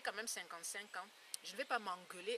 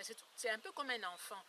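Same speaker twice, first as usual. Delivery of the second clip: ordinary talk, nothing marked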